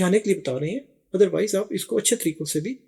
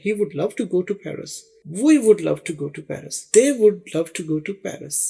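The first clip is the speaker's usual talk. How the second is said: slow example drill; slower than usual. Shown as a demonstration. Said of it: "he کے ساتھ بھی لگا سکتے ہیں".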